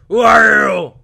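shouted high silly voice; loud silly voice. Retold or imitated. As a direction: squeal it at a stranger. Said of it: "Is that how they talk?".

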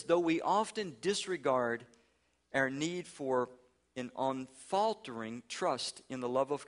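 preacher reading scripture-like text; solemn reading. Acted. Reads Manning quote slowly.

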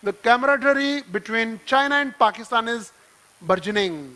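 slow, deliberate headline reading; slow news-style read; newspaper headline read. Shown as a demonstration. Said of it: "The Hindu में".

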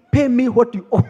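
loud, high-pitched acted outburst; hammed-up throttling creditor's shout; brutal demand. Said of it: "huyu alikuwa brutal".

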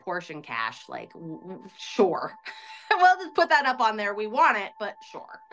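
a light scoff of disbelief; mildly sarcastic. Retold or imitated. Woman recalls doubting they could pay cash, mildly sarcastic. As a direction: play it doubtful, with a sarcastic "sure". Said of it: "You know, kind of sarcastically".

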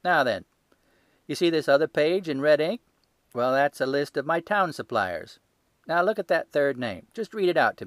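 loud, high-pitched market salesman; a stall keeper showing off his ledger, loud and sure; gruff salesman. Acted. Salesman voiced in story.

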